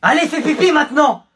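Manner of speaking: tyrannical order. Acted. Teacher humiliating a pupil at the board, loud bossy command. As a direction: order it like a petty dictator.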